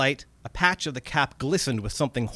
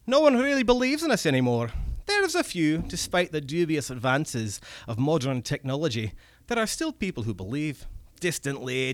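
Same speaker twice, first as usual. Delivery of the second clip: wistful goblin; 2 semitones higher than usual. Acted. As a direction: mourn the old days, goblin voice. Goblin remembers glory days.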